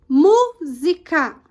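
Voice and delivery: "música" slowly in separate syllables, MÚ loudest; stress on MÚ. Shown as a demonstration. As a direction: break "música" into MÚ-SI-CA, punching MÚ. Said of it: "O mu é a sílaba tônica". ("música" sílaba por sílaba, com força no MÚ)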